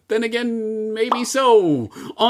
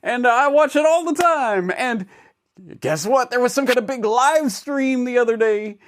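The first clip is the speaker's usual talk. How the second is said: higher, hyped fanboy YouTuber voice; gushing tech fanboy; Johnny YouTuber voice; 3 semitones higher than usual. Acted. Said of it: "No, I am not Johnny YouTuber".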